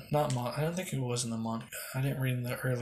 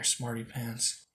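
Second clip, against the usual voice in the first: slow, softer mock jab; teasing; 4 dB quieter, much slower than usual. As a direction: drag it out like a tease. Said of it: "I goes".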